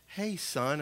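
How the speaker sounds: soft, calm fatherly greeting; calm dad. Retold or imitated. Father gently addressing his twelve-year-old son, calm dad. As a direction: imitate dad speaking softly. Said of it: "and it was calm".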